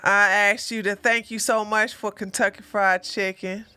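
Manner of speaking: hint of a movie character praying; mock prayer. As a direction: say grace in halting, mock-earnest phrases. Acts out movie grace scene.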